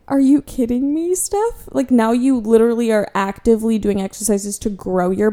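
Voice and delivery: put-on half-teasing reprimand to her old self; mock scolding self. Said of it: "And now I'm like".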